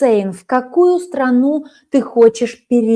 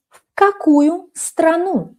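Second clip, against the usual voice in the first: В какую страну raised high; high model question; 7 semitones higher, slower than usual. Shown as a demonstration. Teacher models В какую страну high. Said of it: "Silent move".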